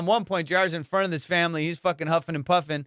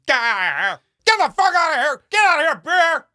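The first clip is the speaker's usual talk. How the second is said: higher, much louder frantic shouting; panicked yell; 12 semitones higher, 8 dB louder than usual. Retold or imitated. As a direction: yell in panic while backing away. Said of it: "dropping his phone and going".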